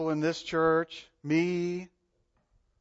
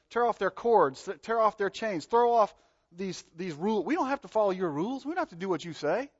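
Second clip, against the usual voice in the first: higher, brisk, defiant taunt; defiant rebels; 4 semitones higher than usual. Acted. Rebellious kings defying the Lord, defiant taunt. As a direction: throw off the rules like a rebel.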